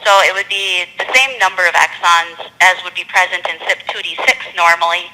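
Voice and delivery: measured explanation, deliberately spaced; slowed down. Real, not acted. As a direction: go over it carefully for someone who missed it. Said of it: "they need you to slow down".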